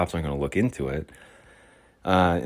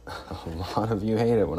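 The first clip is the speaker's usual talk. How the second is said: laughing; 3 semitones higher than usual. Shown as a demonstration.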